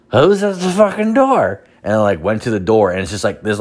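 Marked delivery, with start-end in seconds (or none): 0.1-1.7 mock yell. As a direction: call out to the door, annoyed. Woken by doorbell, yelling.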